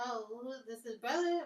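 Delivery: mock a caller guessing wrong; a hint of a baffled stranger; confused phone caller.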